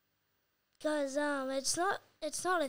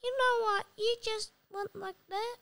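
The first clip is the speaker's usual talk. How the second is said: cowboy voice; 8 semitones higher than usual. Retold or imitated. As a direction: ham up a cowboy. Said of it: "I did the cowboy voice".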